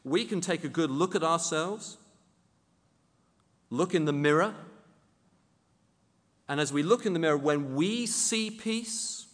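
lightly mock the minister's pious answer; mildly mocking preacher voice; quoting the TV minister. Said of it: "the minister, replies like this".

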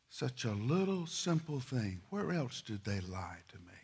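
hushed whisper, barely voiced. Real, not acted. Preacher to congregation, whispering his betrayal. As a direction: let it fall to a breath. Preacher's dramatic low point.

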